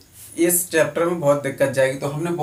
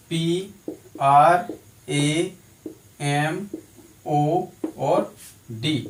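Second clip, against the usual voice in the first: 1 slow spelling; much slower than usual. Shown as a demonstration. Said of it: "पी (spelling out a word letter by letter)".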